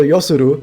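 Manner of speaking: YOSURU said evenly, with short plain vowels; flat pronunciation. Shown as a demonstration. Streamer gives an example of Japanese, flat pronunciation. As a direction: keep "Yosuru" level, no bumps. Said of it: "the flatness is like Yosuru".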